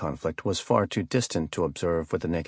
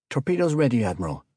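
called-out report; 4 semitones higher, faster than usual. A narrator's reading. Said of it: "Smith called".

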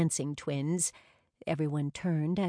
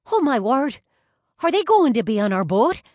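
high, very loud thrilled outburst; excited fan; 7 semitones higher, 10 dB louder, faster than usual. A narrator's reading. Brianna hoping the twins join the boat, excited.

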